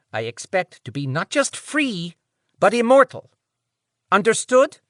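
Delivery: high nasal voice, rising demand. Acted. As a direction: push it high through the nose. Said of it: "nasal voice said".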